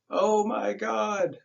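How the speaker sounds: slow, high moaning wail; gasping moan. A narrator's reading. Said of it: "uttered over and over in a gasping moan".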